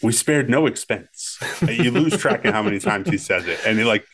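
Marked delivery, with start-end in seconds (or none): 0.0-1.4 slow, proud showman's boast, lightly voiced; a light take on the proud park owner; Hammond impression. Friend quoting a favourite movie line, slow proud boast. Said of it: "I'll give you the classic Hammond line".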